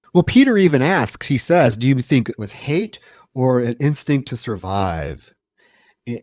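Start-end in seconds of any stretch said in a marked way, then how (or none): none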